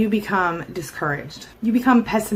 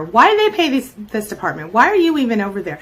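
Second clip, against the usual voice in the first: acted scornful disbelief; 3 semitones higher, 5 dB louder than usual. Voicing a scornful coworker running down department.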